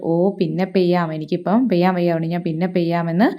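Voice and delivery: a cloud that can't be bothered to rain; lazy brush-off. Acted. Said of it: "പറയുന്നു".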